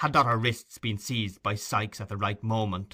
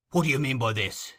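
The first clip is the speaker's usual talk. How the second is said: hard, threatening demand; rough threatening thief; 3 semitones higher, 3 dB louder than usual. Acted. Sikes bullying Nancy, gruff threat. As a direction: lean on her with menace.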